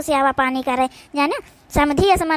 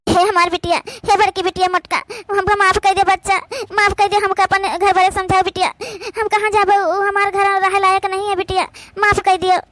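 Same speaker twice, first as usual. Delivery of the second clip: pleading; 3 semitones higher than usual. Acted. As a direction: plead with the daughter to forgive you and take you in. Mother begs daughter for forgiveness.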